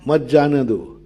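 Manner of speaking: मत जाने दो as one phrase, stress on मत; मत जाने दो falling at the end; phrase after comma. Shown as a demonstration. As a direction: join मत straight onto जाने दो. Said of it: "अल्प विराम".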